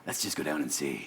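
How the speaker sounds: low, very soft, laid-back voice; unbothered, barely raising the voice; imitacja Tony'ego. Retold or imitated. Retold Tony, unbothered.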